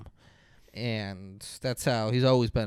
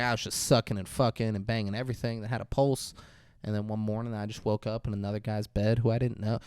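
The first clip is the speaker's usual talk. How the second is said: put-on Southern accent; 4 semitones lower, 3 dB quieter than usual. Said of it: "I'm doing the Southern accent".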